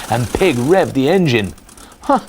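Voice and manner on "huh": high loud yell. A narrator's reading. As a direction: yell it over the engine. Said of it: "he yelled".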